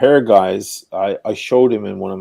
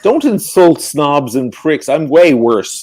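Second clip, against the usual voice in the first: slow mock indignant retort; 4 semitones higher, 6 dB louder than usual. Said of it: "I'm like".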